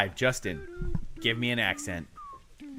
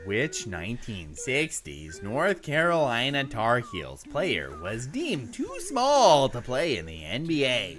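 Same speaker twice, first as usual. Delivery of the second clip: flat, lower, evenly paced robot read; American robot accent; 5 semitones lower, 3 dB quieter than usual. Pretend. Friend asks for American, host reads in a flat robot voice. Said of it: "good American robot accent".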